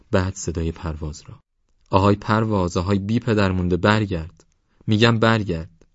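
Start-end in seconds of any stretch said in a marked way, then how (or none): 1.9-5.8 calling out. Acted. Father calls after fleeing son.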